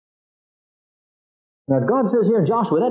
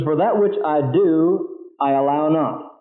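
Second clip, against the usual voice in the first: slow, measured reading of the verse; slow scripture reading; 4 semitones lower, slower than usual. Shown as a demonstration. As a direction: read each phrase slowly, with pauses. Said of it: "this is very difficult language to get".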